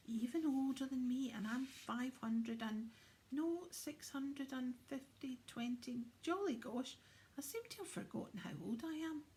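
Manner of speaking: lightly voiced jolly Santa. Santa muddling his age.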